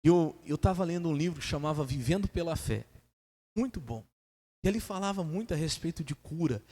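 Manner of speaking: usual speaking voice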